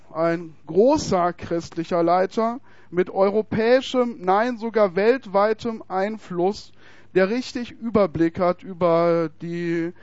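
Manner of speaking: slow, weighty provocateur voice; lightly voiced interviewer, drawn out slowly; mock pompous questioner. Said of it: "sagte er, so".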